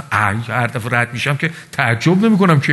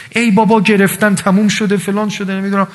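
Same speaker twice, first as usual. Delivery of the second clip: higher mock whine of hopelessness, half-acted; devil's despair; 5 semitones higher than usual. Preacher voicing Satan's whispered despair to the faithful, mock whine. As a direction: play the tempter sighing that all is lost. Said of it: "شیطون همیشه این ناامیدیشو میاره برات".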